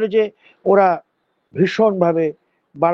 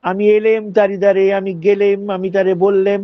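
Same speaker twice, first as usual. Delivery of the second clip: light Shantipuri Bengali lilt; Shantipur dialect. Shown as a demonstration. Teacher demonstrating Shantipur dialect verbs. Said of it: "এটা কিন্তু শান্তিপুরি লোকায়ত আঞ্চলিক ভাষা".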